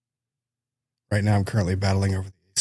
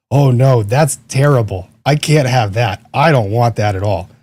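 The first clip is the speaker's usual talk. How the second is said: louder mock horror; mock dismay; 7 dB louder than usual. Real, not acted. Streamer reacting to a chat joke about the microphone, louder mock dismay. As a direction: play up the dismay, loud. Mic sounds like trial clip.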